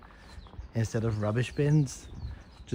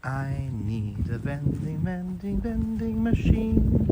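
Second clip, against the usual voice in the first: whiny craving; 6 semitones higher, slower than usual. Acted. Craving a vending machine, whining.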